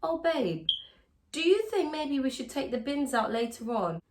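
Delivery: sweet question. Shown as a demonstration. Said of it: "phrase your statements like it's a question".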